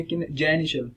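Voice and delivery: "किनजेनिटल" said kin-JEN-i-shul, pitch up on the middle; correct pronunciation. Shown as a demonstration. Teacher models the word for students, correct pronunciation of "किनजेनिटल". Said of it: "यहाँ pitch आपकी high होगी".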